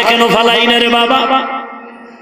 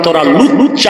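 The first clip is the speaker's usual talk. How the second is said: Barisal dialect; 6 semitones lower than usual. Retold or imitated. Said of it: "আমি বরিশালের ভাষায় বলে গেলাম".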